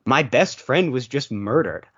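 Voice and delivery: slow, deadpan imitation of grave news; mock-solemn deadpan; straight-faced. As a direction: say it completely straight, drawn out. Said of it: "completely straight-faced going".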